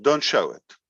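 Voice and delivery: normal talking voice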